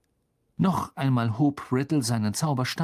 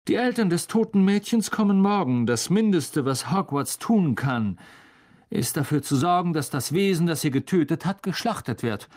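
higher, hard and cold; cold threatening voice; 4 semitones higher than usual. A narrator's reading. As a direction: state it like a verdict. Riddle threatens the monster.

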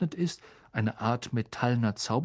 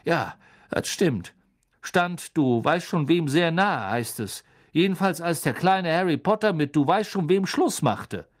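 Stan gossiping; 3 semitones higher, 4 dB louder than usual. Acted. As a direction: confide the rumour with relish.

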